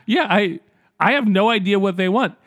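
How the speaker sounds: ordinary talk, nothing marked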